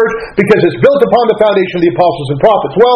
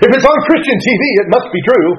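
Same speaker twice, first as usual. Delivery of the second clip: a laugh breaking into the words, higher; 3 semitones higher than usual. Real, not acted. Pastor laughing at his past bandwagon, amused. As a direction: chuckle through it at your own gullibility.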